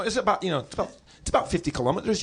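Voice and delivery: improvised, lightly put-on Scottish accent; mock Scottish accent. Making up distances for a girl, mock Scottish accent. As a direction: bluff it in a fake Scottish accent. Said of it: "so we're doing our".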